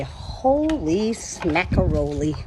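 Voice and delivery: slow, stretched-out exclamation; drawn-out exclamation. Shown as a demonstration. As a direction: draw each word way out. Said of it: "This one you say".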